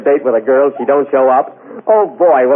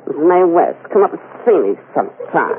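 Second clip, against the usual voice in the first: Mae West voice; 3 semitones higher than usual. Pretend. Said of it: "Don't you recognize the voice?".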